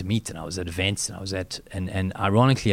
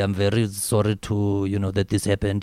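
put-on South African accent. Showing how black students from local schools would sound: imitating a black south african accent. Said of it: "you would talk like this".

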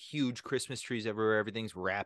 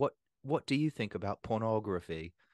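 terrible, clumsy, fake New Zealand accent. Describing a documentary maker questioning people on the street: terrible new zealand accent. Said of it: "that's a terrible New Zealand accent".

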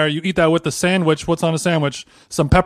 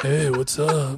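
low, soft, grizzled, sultry morning voice; 4 semitones lower, 8 dB quieter than usual. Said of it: "a little more grizzled and sultry".

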